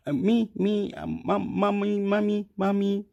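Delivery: high, stammered call for mommy; acted helpless pleading. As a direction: whimper for mother in a mock little voice. Acts himself helplessly calling for mother.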